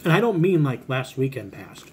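speaking between chews; talking while chewing. Real, not acted. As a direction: mouth partly full of snack. Seen 1: Snack put in mouth at -5; lips pressed, chewing motion during words.

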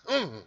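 high, loud mock huff; worked-up grunt. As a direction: pretend to get worked up with a grunt. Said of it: "you kinda get worked up".

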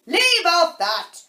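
high, loud, slow screamed command. A narrator's reading. Queen stops the gardeners bowing, screaming. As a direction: scream at them to stop. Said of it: "screamed the Queen".

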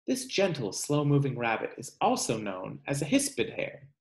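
measured read-aloud voice for a class; reading to children. Acted. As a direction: read the book aloud to kids, slowing on each animal's name. Teacher reads book aloud.

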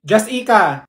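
Jessica said juss-EE-kuh; "Jessica" as juss-EE-kuh, high; mispronounced Jessica. Acted. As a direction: misread Jessica with a stressed "ee". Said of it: "Did she just call me Jessica?".

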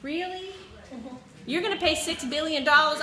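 disbelieving, mocking question; incredulous. Real, not acted. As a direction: scoff at an absurd promise. Mocking the servant's promise.

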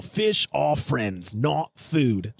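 slow mock Australian accent; Bruce from Nemo. Host quoting a Disney shark, mock Australian accent. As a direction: put on an Aussie cartoon shark, drawn out. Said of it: "the only one I know is Bruce from Nemo".

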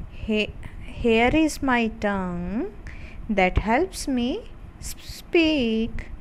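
put-on very slow, measured children's poem recital; poem recitation. Shown as a demonstration. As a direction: recite it slowly, line by line, for pupils to repeat. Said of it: "चलिए recite करते हैं". (बहुत धीरे-धीरे कविता पाठ)

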